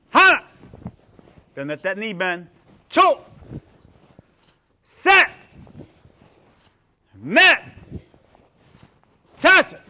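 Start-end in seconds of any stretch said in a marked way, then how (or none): 0.1-0.4 sharp, high martial arts count; shouted drill count. Shown as a demonstration. Instructor counting kicks for the class, shouted. 2.9-9.8 sharp, high martial arts count; shouted drill count. Shown as a demonstration. Instructor counting kicks for the class, shouted.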